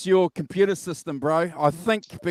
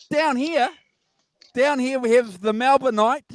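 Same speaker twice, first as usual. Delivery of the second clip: high squeaky weird voice; like a helium balloon voice; 7 semitones higher than usual. Real, not acted. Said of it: "you're doing this really weird voice".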